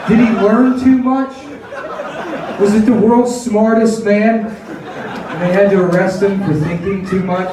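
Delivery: a hint of a clueless bystander; naive wondering person. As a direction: play dumb, wide-eyed. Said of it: "Nobody's like".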